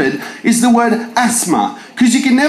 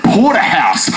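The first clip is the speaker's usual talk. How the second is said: 1 PA announcement. Pretend. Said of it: "you'd hear a voice over the P A".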